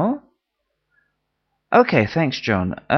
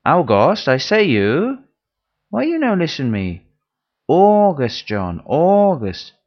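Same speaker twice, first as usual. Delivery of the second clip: broken English; 2 semitones higher, 4 dB louder than usual. Acted. Pupil insists in broken English.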